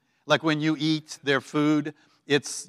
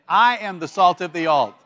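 louder, heartfelt declaration; with more heart; 3 semitones higher, 6 dB louder than usual. Shown as a demonstration. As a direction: lead the room in a loud, convinced declaration. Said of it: "with just a little bit more heart".

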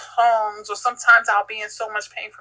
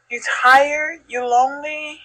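higher-pitched, caring questions; coaxing concern; 6 semitones higher, 4 dB louder than usual. Retold or imitated. Mother drawing out her tired daughter, coaxing concern. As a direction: gently probe with rising pitch, as to a child.

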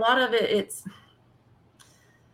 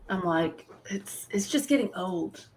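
whispering; 3 semitones lower, 5 dB quieter than usual. Real, not acted. Aside about the show.

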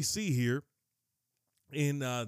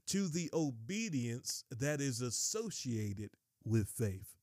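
slow emphatic repeat; slower than usual. Real, not acted. Relishes and repeats the slowed verse.

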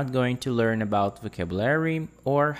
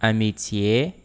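Amitié a little quicker, ending on a rise; a little faster. Shown as a demonstration. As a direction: say Amitié more fluidly, tune lifting. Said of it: "This time a little faster".

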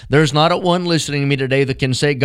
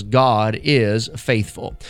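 gentle closing appeal; 2 semitones lower than usual. Acted. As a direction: speak tenderly to the hurting listener. Soft closing over music.

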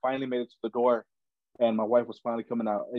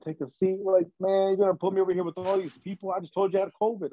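much higher, fast, disbelieving; you can't be serious, say it in shock; retold outrage, pitched way up and rushed; incredulous outburst; 9 semitones higher than usual. Told to wait despite covid.

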